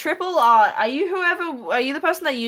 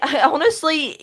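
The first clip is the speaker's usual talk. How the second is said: laughing; 5 semitones higher, slower than usual. Real, not acted. Laughs while answering.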